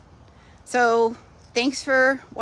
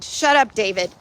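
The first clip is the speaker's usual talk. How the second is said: Schitt's Creek quote; 4 dB louder than usual. Retold or imitated. Teasing husband Craig about her drinking, playful mock snap. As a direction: toss it off like the sitcom line. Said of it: "A little Schitt's Creek humor".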